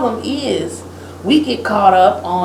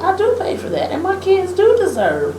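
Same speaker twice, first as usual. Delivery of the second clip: realizing; 8 semitones higher than usual. Retold or imitated. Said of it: "It was like".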